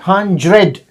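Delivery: "हंड्रेड" with a J sound for the d; native-style blended sound. Shown as a demonstration. Teacher illustrating the J sound for learners, blended. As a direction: say "हंड्रेड" as hun-jred. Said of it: "So sound like a J".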